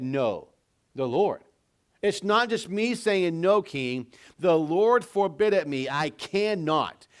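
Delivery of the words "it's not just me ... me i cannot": firm, raised-pitch refusal with weight on "cannot"; emphatic refusal. Acted. Naboth turning down the king's offer for his land, emphatic. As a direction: refuse adamantly, point by point. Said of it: "Naboth's answer was an emph-, emphatic no".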